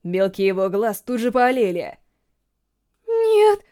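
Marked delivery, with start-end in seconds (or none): 3.1-3.6 высокий, громкий вскрик ужаса; отчаянно вскрикнуть от страха; стон ужаса. A narrator's reading. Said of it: "простонала медсестра". (испуганный стон)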